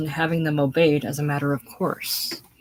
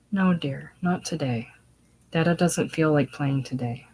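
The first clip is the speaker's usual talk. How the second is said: gentle. Acted. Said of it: "Robert, gently".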